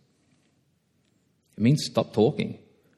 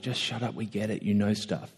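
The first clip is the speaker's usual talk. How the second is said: exasperated retort; 9 dB quieter than usual. Retold or imitated. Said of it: "that you're like".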